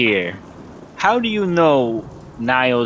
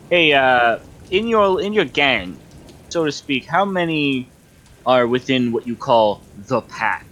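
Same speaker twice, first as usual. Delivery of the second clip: in-character question; 3 semitones higher than usual. Acted. Player asks in character.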